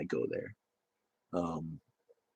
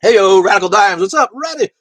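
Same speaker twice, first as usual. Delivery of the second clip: high, loud hype greeting; excited shout-out; 12 semitones higher, 16 dB louder than usual. Real, not acted. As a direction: hail a viewer like a hype man.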